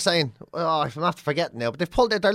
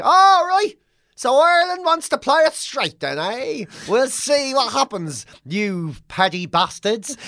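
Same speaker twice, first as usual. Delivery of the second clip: mock British threat; 6 semitones higher, slower than usual. To the Irish, a sneering mock British threat. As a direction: ham up a snide English politician.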